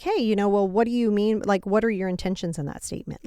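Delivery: a plain, open hey that asks sincerely; sincere, even-toned hey; calm direct question. Shown as a demonstration. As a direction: ask their intentions calmly, no edge. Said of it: "be like".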